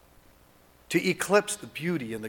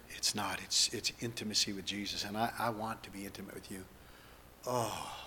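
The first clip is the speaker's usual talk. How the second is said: spoken prayer. Acted. Leads congregation in spoken prayer.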